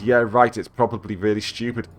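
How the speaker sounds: mildly grumpy, dismissive husband; cranky. Acted. Husband dismissing his wife's gift, mildly cranky. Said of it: "cranky as usual".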